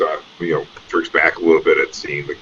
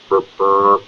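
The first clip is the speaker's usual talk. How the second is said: a light mechanical burp sound; mock burp noise; 4 semitones higher than usual. GM voicing the crate's burp sound. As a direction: imitate a machine going burp, burp. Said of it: "kind of sound".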